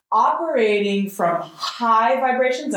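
"high vibrations" set apart as a label; air quotes. Shown as a demonstration. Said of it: "I'm putting these in finger quotes".

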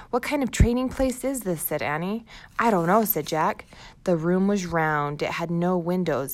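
put-on storybook read-aloud for young kids; reading to children. Teacher reads the chapter aloud to first graders, storybook voice. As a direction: tell the story brightly to a class.

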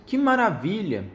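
high delighted exclamation; exclaiming. Acted. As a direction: gasp with delight. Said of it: "exclamou seu texugo".

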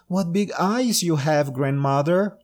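put-on high, wide-eyed little girl; amazed young girl. Girl marvelling at the wolf.

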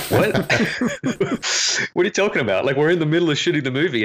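retold incredulous objection. Director objects to cinematographer mid-shoot, retold in disbelief. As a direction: replay your baffled protest at the idea. Acting out his shocked objection.

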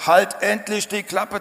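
angry rebuke. Retold or imitated. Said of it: "die Leute sagten".

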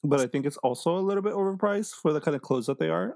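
crunching ice while talking; chewing ice. Real, not acted. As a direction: talk around a mouthful of ice. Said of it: "I'm sorry, I'm eating ice".

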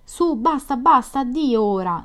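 high, loud, urgent goodbye; hurried farewell. A narrator's reading. Nastenka cutting off the evening, hurried and insistent. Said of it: "disse lei in fretta".

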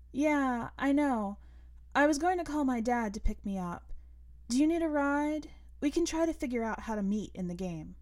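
put-on a girl offering a ride; girl character voice. Narrator voices the girl Cannon.

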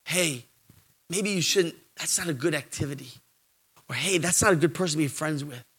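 soft, gentle nudging voice; quiet nudge. Acted. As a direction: gently whisper a warning. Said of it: "quietly nudge you and say".

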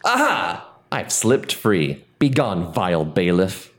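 melodramatic villain escaping; hammy stage actor. Acted. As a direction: ham up an old-timey escape. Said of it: "you are one greasy son of a guy".

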